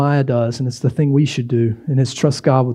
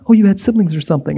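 mimicking sibling; 4 semitones higher, faster than usual. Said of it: "they just keep imitating you".

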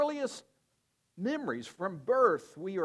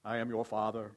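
a hint of a lower, fatherly voice to a baby; lightly voiced dad; 5 semitones lower than usual. Father holding his baby face to face, lightly lower voice. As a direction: show the baby who daddy is.

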